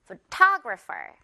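Photographer said very slowly, TO stressed; very slow syllable-by-syllable Photographer; slow stress drill. Shown as a demonstration. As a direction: drag out pho-TO-gra-pher for the class. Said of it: "한 번 더".

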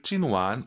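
"찐완" with "완" lifted upward; "찐완" ending on a rising second syllable. Shown as a demonstration. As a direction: raise the pitch through "완" in "찐완". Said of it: "올리신 거 맞죠".

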